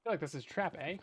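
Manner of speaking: a light Canadian accent with a tacked-on eh; Canadian accent, lightly played for the joke; mild Canadian accent. Shown as a demonstration. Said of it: "Do a Canadian accent?".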